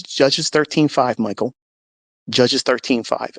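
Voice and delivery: slow, deliberate divine voice; the voice of God. Retold or imitated. God's voice answering a grieving man. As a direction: give the verse slowly, like a command from above. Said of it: "that same voice says".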